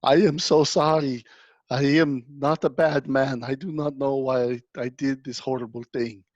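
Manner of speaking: a hint of crying, begging forgiveness; tearful pleading. The sorry NPC begs the party through mild tears. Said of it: "he starts crying. He goes".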